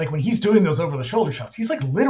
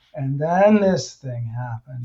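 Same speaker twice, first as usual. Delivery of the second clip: imitated droning teacher voice; 3 semitones lower than usual. Imitating a boring teacher talking in front of a class: imitating a droning teacher. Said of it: "that is what the teacher sounds like".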